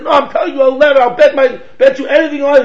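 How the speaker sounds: loud, high, rushed insistence; getting heated up. Retold or imitated. Arguer insisting to his opponent, all heated up. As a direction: imitate a man working himself up in argument. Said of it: "He's getting all heated up".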